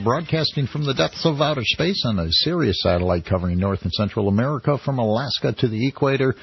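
booming space-age announcer intro; old sci-fi announcer. Acted. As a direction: announce it like a cosmic broadcast. Grand station intro, broadcasting from space.

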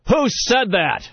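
slow, high-pitched challenge; imitated stern demand. Khrushchev leaning toward the silent room, demanding slowly. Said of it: "then he leans forward and he says".

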